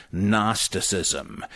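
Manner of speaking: "Gnosticism" as NOSS-tih-sizm, slowly; no G at the front of "Gnosticism"; silent G. Shown as a demonstration. Correcting the actor, "Gnosticism" with silent G. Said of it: "The G is silent".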